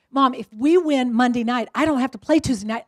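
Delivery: loud, emphatic retold pitch to mom; eager son. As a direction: imitate a kid pressing his case. Son pitches his Vegas plan to mom.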